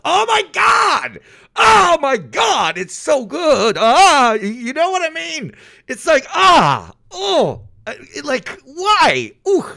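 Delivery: very high, slow, shouted raving; overwhelmed squealing delight; ecstatic shouting. Real, not acted. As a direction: lose it completely over the sound. Raving about the Spanish accent.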